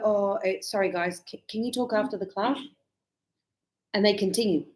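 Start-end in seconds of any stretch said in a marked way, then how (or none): 0.0-2.6 1 polite request. Shown as a demonstration. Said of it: "and I go".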